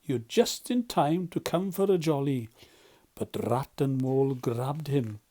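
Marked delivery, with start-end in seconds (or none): 0.0-2.5 cheerful. Acted. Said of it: "he began cheerfully".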